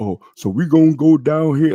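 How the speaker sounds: dumb caricature voice. Describing adults in blackface mocking kids: imitating dumbass voices. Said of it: "dumbass voices".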